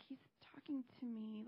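whispered in quiet surprise, voice barely there; awed whisper. Retold or imitated. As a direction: lean in and whisper it like a secret. Daughter surprised at man.

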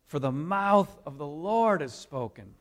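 measured, solemn reading voice; scripture reading. Acted. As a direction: read the passage like a lesson from the pulpit. Reads Isaiah 40 aloud.

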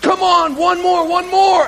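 high, loud spotter urging; coach yelling. Retold or imitated. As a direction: urge him for another rep. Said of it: "when Clay yelled at me".

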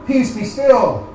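slow, steady command to the storm; calm rebuke. Retold or imitated. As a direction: speak peace slowly, with authority.

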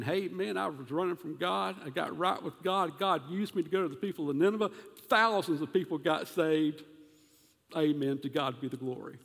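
a touch of swagger, a self-satisfied prophet bragging lightly; boastful Jonah. Acted. Preacher voicing Jonah boasting to the congregation, lightly mocking. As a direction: lightly play a proud Jonah showing off his success. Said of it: "Jonah would be saying".

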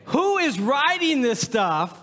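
high, drawn-out exclamation of disbelief; mock incredulous. Pastor reacting to absurd cologne descriptions, incredulous outcry.

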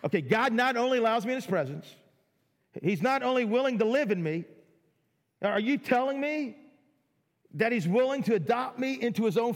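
incredulous wonder; amazed disbelief. Retold or imitated. Voicing amazed disbelief again.

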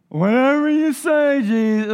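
a keen yes to the master; eager obedient reply. Retold or imitated. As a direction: toss it off gladly to Jesus. Peter voiced obeying Jesus.

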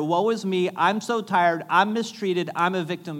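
mock self-pity.

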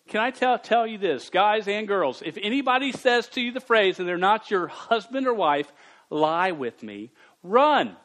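fired-up warning. Real, not acted. Preacher urges youth to run.

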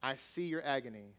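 soft, slow mother's voice from the grave; whispered. A narrator's reading. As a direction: hush it like a mother consoling her son. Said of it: "she whispered and said".

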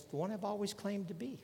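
lightly acted incredulous comeback; Jesus. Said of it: "Jesus just kinda looks back at him and says".

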